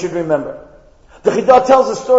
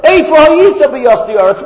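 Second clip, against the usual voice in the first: booming divine voice; 4 semitones higher, 4 dB louder than usual. Acted. God's voice quoting Job.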